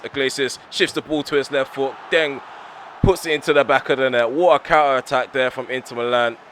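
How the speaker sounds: goal call. Real, not acted. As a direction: narrate the goal going in with dismay. Conceding a counter-attack goal.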